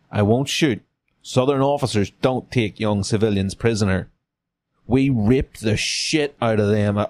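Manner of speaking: lightly voiced Southern officer; a hint of Southern accent; Frank Underwood accent. Officer reassuring a young civilian, light Southern accent. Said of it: "That's a Frank Underwood accent".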